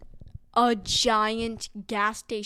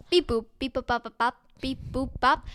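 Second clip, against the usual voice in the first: robot alien talk; 3 dB louder than usual. Acted. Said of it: "went up to that alien and said".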